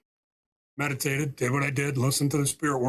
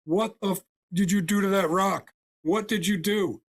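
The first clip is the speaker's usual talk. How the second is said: higher, mock-angry yell at the healer; imitating a crying, furious veteran's shout; retold yelling; 5 semitones higher than usual. Veteran confronting the healer in the parking lot, mock yelling. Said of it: "he's yelling".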